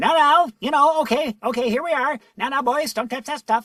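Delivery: very high little professor voice, high register. Voice actor demonstrating the voice that became a game character: high Toadsworth voice. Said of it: "went up in, into that range".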